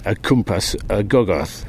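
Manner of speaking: put-on Welsh words in a Geordie accent, slow and careful; hesitant Geordie Welsh, each word placed. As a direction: Geordie accent working through Welsh phrases. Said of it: "Geordie Welsh".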